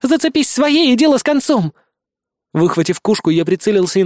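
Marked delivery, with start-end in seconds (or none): 0.0-1.7 put-on high, bossy girl voice; indignant girl. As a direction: snap the order high.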